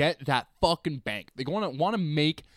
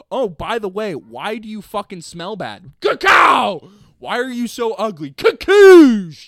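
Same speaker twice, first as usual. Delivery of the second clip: loud, high mocking jabs with shouted blasts; rude customer; 5 semitones higher, 12 dB louder, slower than usual. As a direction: fire the questions off like gunshots. Voicing a blunt customer.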